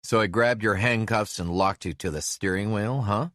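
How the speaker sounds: a lawman talking over engine noise. Acted. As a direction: Brazil calling over the engine. Brazil's voice, loud, in the cab.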